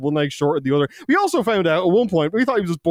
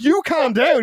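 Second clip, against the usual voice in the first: raised, higher-pitched command; retold firm order; 11 semitones higher, 3 dB louder, slower than usual. Police to ranting suspect, imitated firm order. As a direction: imitate police telling someone off.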